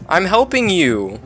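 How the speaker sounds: high frantic yell; panicked shout. Real, not acted. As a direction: shout at the player to stop. Player shooting at him.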